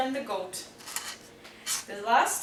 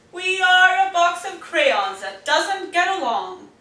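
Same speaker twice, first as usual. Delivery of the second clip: stern declaration; 5 semitones higher, 8 dB louder than usual. A narrator's reading. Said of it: "said blue".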